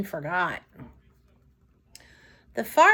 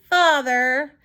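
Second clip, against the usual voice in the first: squealed with delight; 3 semitones higher than usual. Acted. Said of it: "Maggie squealed with delight".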